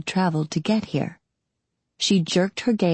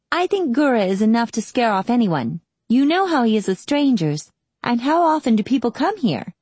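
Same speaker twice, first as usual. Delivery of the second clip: put-on higher, lively girl's protest; lightly voiced eager girl; 5 semitones higher than usual. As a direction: plead the case as a lightly voiced kid sister. Child protests to older brother.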